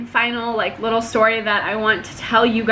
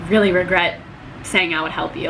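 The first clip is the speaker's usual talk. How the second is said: regretful aside; 6 semitones lower than usual. Retold or imitated. Retold regretful thought to herself.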